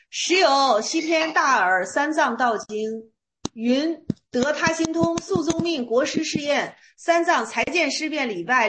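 put-on slow, measured reading of an old Chan text; slow recitation of a koan; reading classical text. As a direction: read it out slowly like scripture.

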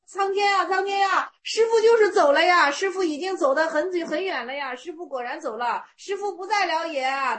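high, mournful wail over the master; a hammed-up cry for the departed master; mock wailing. Disciple mock-wails at his master's funeral. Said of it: "他就在那儿大哭大哭啊".

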